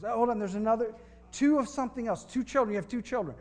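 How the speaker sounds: mock psychic reveal. Continued fake psychic reading.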